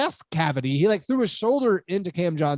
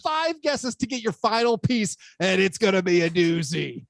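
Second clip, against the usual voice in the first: monster truck ad; 3 semitones higher than usual. Acted. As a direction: sell it like a Sunday Sunday Sunday promo. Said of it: "He's gone full monster truck guy".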